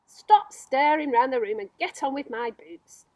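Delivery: loud, impatient order; bossy centipede. Acted. Centipede bossing James about the boots, loud and impatient. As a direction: snap the order at him.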